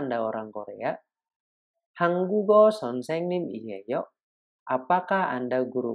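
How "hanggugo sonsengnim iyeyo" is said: Hanggugo sonsengnim iyeyo slow and higher, the end of iyeyo rising as a question; slow teacher question, rising on iyeyo; rising question tune. Shown as a demonstration. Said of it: "intonasinya harus naik".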